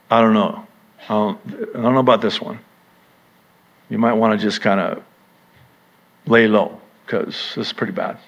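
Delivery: a hint of a sly tempter; lightly voiced doubting enemy. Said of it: "here's the enemy right there going".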